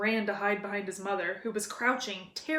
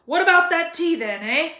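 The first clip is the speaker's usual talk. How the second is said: lightly voiced booming giant, friendly; a big friendly giant asking for tea; gruff giant; 7 semitones higher, 9 dB louder than usual. A narrator's reading. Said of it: "he said".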